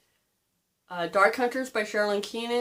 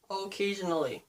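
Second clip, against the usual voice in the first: "Occasionally" repeated softer, dry and knowing; softer deadpan "Occasionally"; quiet wry echo; 5 dB quieter than usual. Shown as a demonstration. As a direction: drop the voice and say "Occasionally" like a confession.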